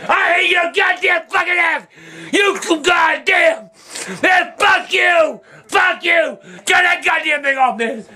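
real outrage, yelling at the TV; furious outburst. Real, not acted. Man yelling at the TV over the verdict, furious. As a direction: shout it in disbelief at the verdict. Raging about justice for the baby.

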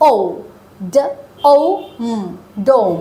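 ডোম broken into ড, ও, ম then blended; sounding out. Shown as a demonstration. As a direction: spell out each sound, then join into ডোম. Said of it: "বুঝায় ও sound".

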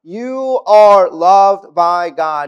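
"You ARE loved by God", very slow, with ARE drawn out long and loud; a preacher hammering home "ARE" in "You are loved by God"; stress on are. Acted. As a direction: lean hard on "are" and stretch the line out. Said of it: "slow stressed promise".

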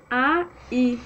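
A and I shorter, with a brief gap. Shown as a demonstration. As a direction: say A, I closer together. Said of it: "falar um pouquinho mais rápido".

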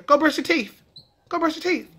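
"teeth" ending in F, said "teef". Shown as a demonstration. Parent telling kids to brush, "teeth" as "teef". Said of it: "when teeth is just so much easier".

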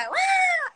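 very high shouted crow screech; imitated crow screech. She imitates the crow screaming at her, a high shrill screech. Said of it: "me empieza a gritar".

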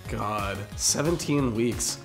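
usual speaking voice

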